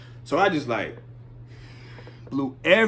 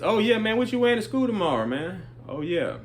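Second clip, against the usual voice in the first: fake breezy small talk; 3 semitones higher, 3 dB quieter than usual. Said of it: "You know, making small talk".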